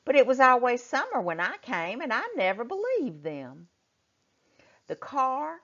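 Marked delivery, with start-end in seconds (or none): 0.0-3.7 pretending not to mind. A narrator's reading. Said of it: "pretending not to mind".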